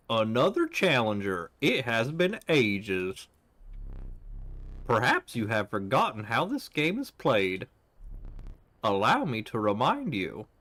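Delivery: lightly voiced southern mountain man accent. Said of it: "I'll just give him, like, a thick southern accent".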